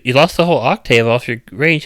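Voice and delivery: ordinary delivery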